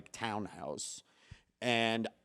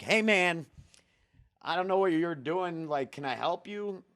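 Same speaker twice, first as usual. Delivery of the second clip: raised, higher call to a stranger; retold calling out; 5 semitones higher than usual. Man at the window to a stranger on his porch, calling out.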